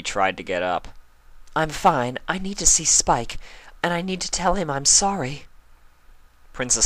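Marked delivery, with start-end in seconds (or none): 1.6-5.5 higher, urgent insistence; anxious Rarity. A narrator's reading. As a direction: push to get out of bed. Rarity insists on seeing Spike.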